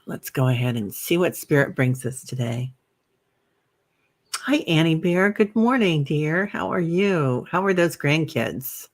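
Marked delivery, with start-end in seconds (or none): 4.5-8.9 cheery greeting. Real, not acted. Greeting a viewer on livestream.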